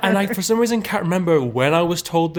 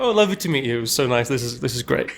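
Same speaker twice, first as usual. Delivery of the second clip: cheery and excited. Acted. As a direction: play him delighted to meet people. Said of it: "so cheery and excited to meet people".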